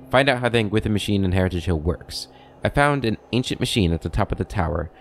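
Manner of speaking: measured reading of a quest journal; journal read-aloud. Acted. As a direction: read it out as a recap.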